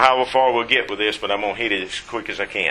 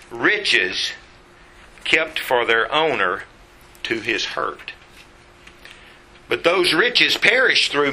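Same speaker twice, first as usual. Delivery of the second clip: measured, raised reading voice; scripture reading; 3 semitones higher than usual. Acted. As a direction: read the verse aloud to the congregation. Reads scripture aloud.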